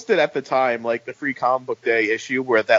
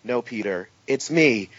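flat deadpan reply; 3 semitones lower, 4 dB quieter, slower than usual. Retold or imitated. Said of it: "running gag of impostors".

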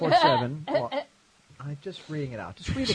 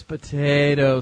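mock Irish accent; 3 semitones lower, much slower than usual. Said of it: "said in a mock Irish accent".

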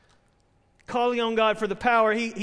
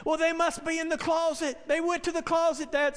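lightly voiced worried child, higher pitch; mild mock-frantic child; frantic little boy; 5 semitones higher than usual. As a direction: imitate a kid urgently insisting to Dad. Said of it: "not to be so frantic".

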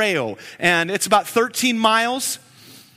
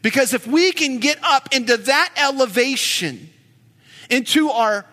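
preaching; 2 semitones higher than usual. Real, not acted. Pastor preaching to the congregation about God's elevation, building fervour. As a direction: lift the congregation up to God's majesty.

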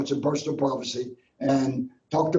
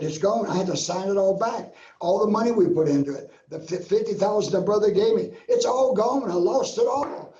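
distressed pleading; 4 semitones higher than usual. Retold or imitated. Retelling his despair to God.

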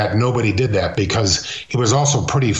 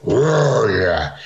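Firpo. Retold or imitated. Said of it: "Firpo did it".

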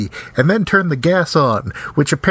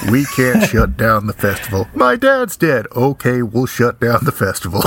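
no emotion, deadpan line reading; bad acting; 3 semitones lower than usual. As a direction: jump moods with no feeling at all. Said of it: "no emotion whatsoever".

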